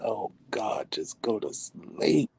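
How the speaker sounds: slow, drawn-out weary plea; exasperated pleading. Retold or imitated. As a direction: beg wearily, stretching the last word. Wife pleads with screaming husband.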